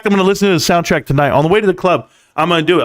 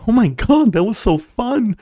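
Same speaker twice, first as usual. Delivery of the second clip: giddy imitation; 4 semitones higher than usual. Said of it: "She's so giddy and nervous".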